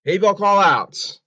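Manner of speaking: very loud, high shout; slow, full-volume yell at high pitch; emotional call-out. Real, not acted. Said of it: "I'm gonna get very emotional here".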